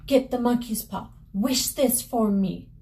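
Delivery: mildly pleading mother, pitch rising toward the end; desperate demand. Acted. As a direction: urge him desperately to act. Mother demanding a wish in story.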